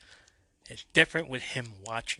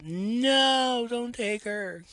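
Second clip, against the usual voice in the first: much higher, louder cry of a mother; desperate yell; 13 semitones higher, 5 dB louder, much slower than usual. A narrator's reading. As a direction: yell after the kidnapper. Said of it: "Liberty yells out".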